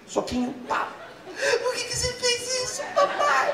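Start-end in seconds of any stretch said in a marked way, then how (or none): 1.6-3.5 put-on much higher child's voice; little boy voice. Toddler son asking daddy why, high child voice. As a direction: ask it like a tiny toddler. Voicing the three-year-old son.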